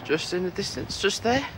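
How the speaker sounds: breathless from the walk; puffing between words; out of breath. Real, not acted. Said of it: "God, I'm out of breath".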